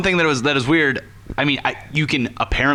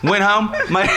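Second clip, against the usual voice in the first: higher British attempt sliding into Australian; attempted British accent; 3 semitones higher, slower than usual. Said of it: "it's going to be Australian".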